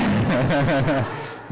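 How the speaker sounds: real giggle in a quick run; laughing. Real, not acted. Host amused mid-introduction, laughing. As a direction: chuckle at your own remark.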